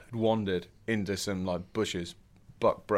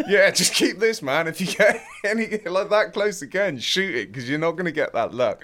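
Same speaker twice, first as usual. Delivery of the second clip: laid-back local; 9 semitones higher, 8 dB louder than usual. Retold or imitated. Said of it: "He's like".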